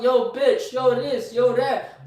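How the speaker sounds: imitating guys. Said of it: "This niggas that talk".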